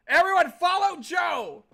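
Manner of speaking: rally everyone loudly; shout. Real, not acted. Calling out to chat.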